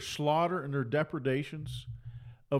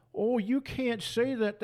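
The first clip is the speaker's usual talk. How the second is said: high, slow sneering mimicry; mock the whiny objector, pitched up and drawn out; sing-song mockery of a scold; mocking critic; 7 semitones higher, slower than usual.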